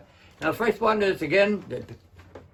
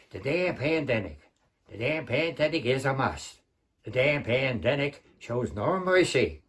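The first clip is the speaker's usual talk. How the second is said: lightly voiced old movie tough guy, slightly lower; James Cagney; 3 semitones lower than usual. Comic performs the pandemic poem as a movie star, tough-guy impression. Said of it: "the first half by James Cagney".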